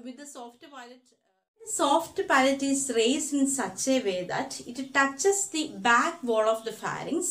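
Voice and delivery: very slow, word-by-word dictation for notes; slow textbook dictation. Shown as a demonstration. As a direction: read the definition out so students can write it down.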